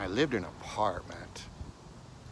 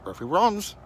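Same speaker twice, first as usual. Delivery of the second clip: talking dog; 11 semitones higher, 10 dB louder than usual. Retold or imitated. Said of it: "and he goes".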